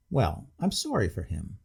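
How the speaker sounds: ponderous sincerity. Acted. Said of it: "with ponderous sincerity".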